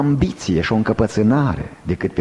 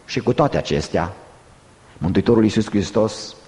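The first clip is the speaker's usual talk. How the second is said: low, grave preacher's delivery; solemn preaching; 6 semitones lower than usual. Real, not acted. Preacher telling listeners Christ weeps with them, solemn preaching. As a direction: let it sink low with solemn pauses.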